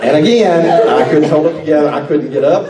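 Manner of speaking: laughing through the words; can barely get it out for laughing. Real, not acted. Sheriff retelling a funny story, laughing. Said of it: "I was laughing so hard".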